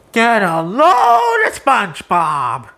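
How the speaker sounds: slow, nasal-free mocking call; mocking Squidward. Squidward jeering at SpongeBob, slow and mocking. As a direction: jeer slowly at him.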